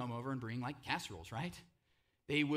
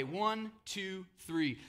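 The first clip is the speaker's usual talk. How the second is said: counting in; 4 semitones higher, much slower than usual. Shown as a demonstration. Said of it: "can everybody growl with me".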